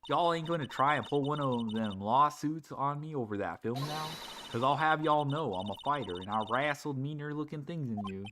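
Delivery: put-on scolding with a light Southern accent; indignant Southern local; Lotta's southern accent. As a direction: tell them off, lightly Southern. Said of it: "She has a southern accent".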